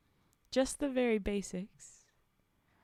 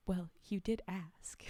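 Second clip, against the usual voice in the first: whispered, sly sass; sassy; 2 semitones lower than usual. Acted. Creature sassing the horrified specialist, sly whisper. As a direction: toss it off with cheek. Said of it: "A silly sort of sass".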